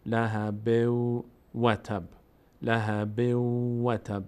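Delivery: drawn-out chanted لهبو و تب; slow Quran recitation. Shown as a demonstration. Teacher recites the verse slowly for students, chanted. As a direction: recite slowly, stretching every sound. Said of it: "recitation practice demo".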